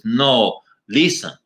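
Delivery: put-on slow, deliberate Latino-accented correction; Latino-accented eagle puppet. Puppet corrects the ventriloquist, slow Latino accent. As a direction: spell it out slowly in a Latino accent. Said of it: "you have a Latino accent".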